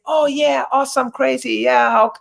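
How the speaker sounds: imitating Americans. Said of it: "Americans say".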